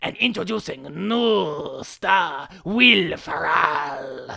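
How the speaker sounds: very slow, deep, gravelly movie trailer announcer voice. Retelling the announcer of a Spanish-language movie trailer, in a deep movie trailer voice. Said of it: "the trailer voice guy is that is the deep voice guy".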